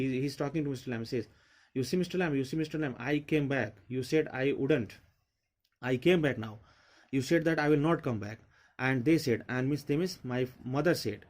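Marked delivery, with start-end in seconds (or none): 1.7-8.4 excited boast. Acted. Teacher voices Derry excitedly to Lamb.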